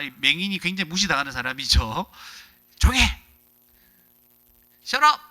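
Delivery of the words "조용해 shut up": much higher, louder scolding shout; mock rebuke shout. Preacher voices the crowd silencing the blind man, loud rebuke. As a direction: snap at him to shut up.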